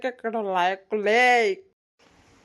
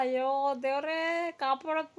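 whimpering plea; 4 semitones higher, 6 dB quieter than usual. Acted. Pinned man prays for help.

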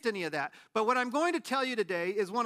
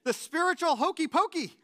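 much higher, louder, laughing in disbelief; baffled laughing; 9 semitones higher, 5 dB louder than usual. Retold or imitated. Whispering to his brother in a Pentecostal church, laughing in disbelief. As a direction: crack up at the absurdity. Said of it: "And I'm like".

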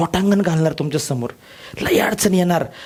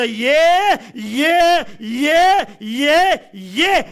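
defiant come on; 6 semitones higher, much slower than usual. Acted. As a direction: dare the problems to come at you. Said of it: "प्रॉब्लेमला म्हणायचं".

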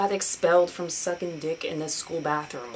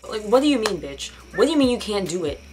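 louder, fast, indignant demand; louder indignant rant at a friend who bailed; exasperated rant; 4 dB louder than usual. Real, not acted. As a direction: call the bluff of a flaky friend. Ranting at the flaky friend.

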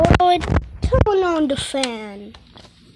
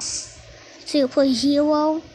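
silly slow voice; 3 dB quieter than usual. Pretend. Teacher teasing the student with a slow quiz question. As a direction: drag "Zero plus zero?" out slowly. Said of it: "Stop talking like that".

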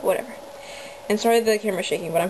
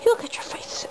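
high squeak at a pet; squeaky voice; 14 semitones higher, 3 dB quieter than usual. Real, not acted. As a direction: squeal it out adoringly. Squealing at the rabbit.

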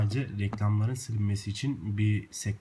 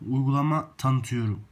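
projecting clearly into the phone; loud into the mic; 5 dB louder than usual. Real, not acted. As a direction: speak up for the microphone. Testing the app microphone.

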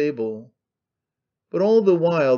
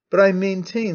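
higher excited insistence; excited shrill; 5 semitones higher than usual. Acted. Old man insisting to the jeering hall, pitch lifted in excitement. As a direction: press the point, pitch lifted. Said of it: "shrilled at the utmost pitch of excitement".

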